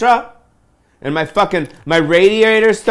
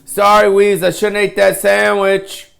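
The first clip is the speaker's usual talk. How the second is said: mock fat passenger; 4 semitones higher than usual. Comic mocking the man who takes his armrest, sheepish apology. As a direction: ham up a sheepish plane seatmate. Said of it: "he's like".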